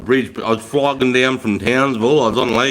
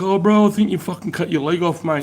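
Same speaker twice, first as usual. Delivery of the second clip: truck driver; 6 semitones higher than usual. Retold or imitated. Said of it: "he's like".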